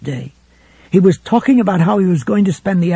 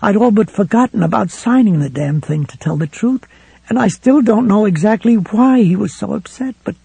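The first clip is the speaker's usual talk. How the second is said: a scared wife breaking toward tears; fretful and frightened; 6 semitones higher than usual. A narrator's reading. Helen telling Ralph about Ed's return, frightened and rising. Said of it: "becoming fretful and frightened".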